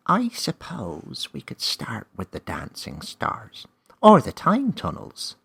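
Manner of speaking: slow, then high loud glee; light up at the idea; gleeful suggestion. A narrator's reading. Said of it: "Name suggested gleefully".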